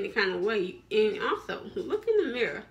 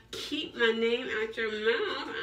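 mock gossip snap; slower than usual. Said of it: "they be like".

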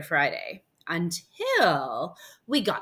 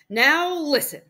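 louder, higher, insistent opening; stern mom; 7 semitones higher, 7 dB louder, slower than usual. Acted. Mom confronting the barber, firm and loud. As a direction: demand attention as a fed-up mother.

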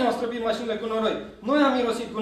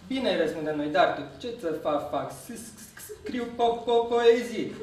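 lightly voiced stammer, repeated first syllables; stuttering Dudu; slower than usual. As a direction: stumble over the starts of words. (bâlbâială ușoară a lui Dudu)

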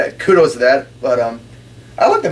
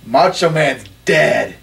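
slow, drawn-out mock yell; retold yell; 3 semitones higher, much slower than usual. Wrestler yells back at a fan, retold slow yell. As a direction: stretch it out like a heckling taunt. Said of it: "looked right at me and yells".

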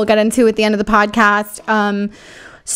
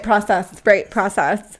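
mimicked Nigerian accent; 2 semitones lower, slower than usual. Echoes his put-on accented word.

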